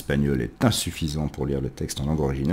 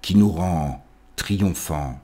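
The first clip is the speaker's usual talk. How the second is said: poetry recitation. Acted. Lit Le vin du solitaire. (récitation de poème, posée puis montant en intensité)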